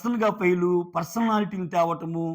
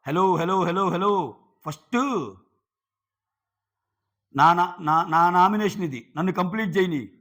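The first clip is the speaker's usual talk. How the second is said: raised voice, calling out hello over and over; insistent raised voice to claim his turn; retold shouting over her; 4 dB louder, slower than usual. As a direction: talk loudly over an interruption. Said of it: "నేను కూడా అంతే గట్టిగా అరిస్తే".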